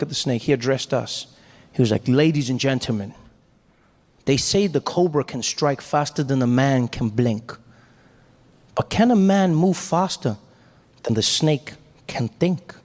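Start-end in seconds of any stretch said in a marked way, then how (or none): 2.1-12.7 calm and cool. Retold or imitated. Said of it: "really cool and calm".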